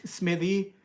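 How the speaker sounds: "Smithy" ending like thee; own pronunciation. Shown as a demonstration. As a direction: say "Smithy" with voiced th, rising. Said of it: "like T H E E".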